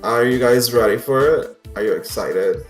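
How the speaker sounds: ordinary delivery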